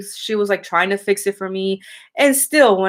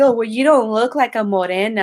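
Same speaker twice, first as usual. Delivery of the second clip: mocking cashier; 3 semitones higher than usual. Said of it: "He's like".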